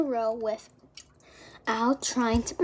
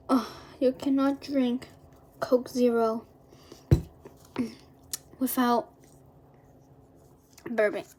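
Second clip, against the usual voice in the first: whispering; 5 dB louder than usual. Real, not acted. Whispered aside after chugging.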